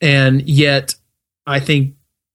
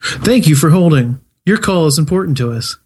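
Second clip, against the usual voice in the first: phone menu voice. Pretend. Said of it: "we need hold music".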